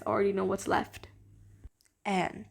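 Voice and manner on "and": dramatic countdown. Acted. Countdown drum roll reveal.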